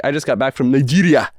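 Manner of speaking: Nigeria in a mock African accent. Shown as a demonstration. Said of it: "I feel wrong if I went to".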